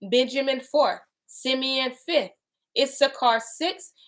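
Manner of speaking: slow, measured reading aloud; deliberate scripture recital. Acted. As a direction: read the holy text with weight. Reads scripture aloud slowly.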